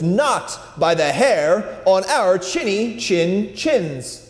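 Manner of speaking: slow, firm defiance; brave little pig. Acted. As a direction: stand your ground. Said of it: "replied to the wolf".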